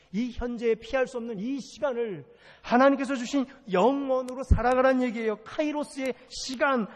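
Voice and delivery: high-pitched pulpit exhortation; rousing preaching. Real, not acted. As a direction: press each command on the congregation. Preaches at full force.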